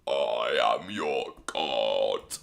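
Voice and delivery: mock god voice. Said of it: "I didn't even know I could do this voice".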